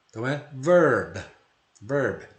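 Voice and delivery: "Verb" with a v and an open "a"-like vowel; "Verb" like "van" with v and an open vowel; pronunciation model. Shown as a demonstration. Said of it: "substitui aquele C por um V".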